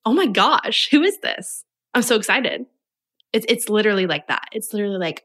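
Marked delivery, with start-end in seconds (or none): 0.0-2.7 higher, gushing oh my gosh; thrilled about a new follower; excited. Retold or imitated. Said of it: "Now it's like".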